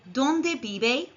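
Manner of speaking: "Dónde vive" rising on dónde, v as b; model Spanish question. Shown as a demonstration. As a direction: say "Dónde vive" clearly for learners. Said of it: "Repeat after me".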